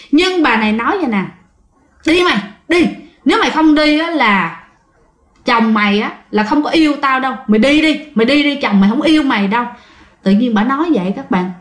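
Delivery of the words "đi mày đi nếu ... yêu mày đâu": higher, fast taunting push; taunting order. Retold or imitated. Ghost woman taunts that her husband doesn't love her, pushy. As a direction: needle her into leaving.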